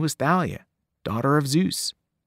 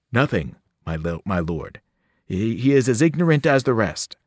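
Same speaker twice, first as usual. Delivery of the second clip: a lightly voiced nervous underling; fawning servant. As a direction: stammer out the report to your master. Servant answers his master.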